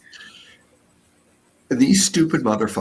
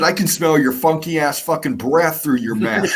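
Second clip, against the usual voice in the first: laughing retold insult; 4 semitones higher than usual. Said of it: "I said".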